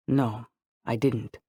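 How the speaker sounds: low-key, slow sighed denial; sighing. A narrator's reading. Anthony answering Targa's deflection, sighing. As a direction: let the words out slowly like a sigh. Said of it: "He sighed".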